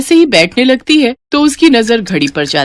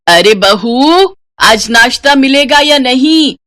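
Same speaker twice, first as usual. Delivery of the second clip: calling out; 4 semitones higher, 4 dB louder, slower than usual. Acted. Mother-in-law calls for breakfast.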